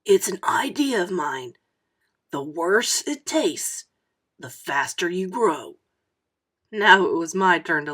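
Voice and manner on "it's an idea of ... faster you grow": put-on a kid sharing a secret theory, whispering; secretive whisper. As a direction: lean in and whisper it like a big secret. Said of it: "getting real serious".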